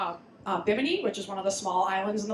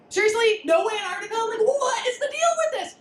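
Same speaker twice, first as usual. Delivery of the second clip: higher, louder, laughing disbelief; mock outrage; 9 semitones higher, 3 dB louder than usual. Real, not acted. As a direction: scoff at the missing continent, half laughing. Indignant at maps missing Antarctica.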